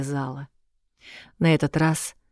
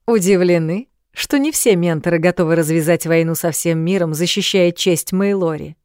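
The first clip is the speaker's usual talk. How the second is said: louder sarcastic male voice; mocking; 2 semitones higher, 5 dB louder than usual. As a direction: needle her with scorn. Ренуарт колко насмехается. (насмешливо)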